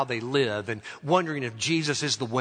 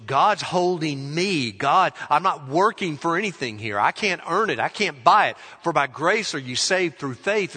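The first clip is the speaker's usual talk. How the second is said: loud, insistent objection; emphatic protest; 2 semitones higher, 6 dB louder than usual. Acted. A believer protesting to Jude that God holds them, emphatic. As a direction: argue back forcefully, pressing each point.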